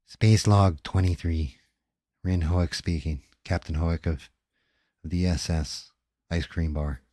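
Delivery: a hint of a weary starship captain dictating; spaceship captain's log. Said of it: "It sounds like a different person".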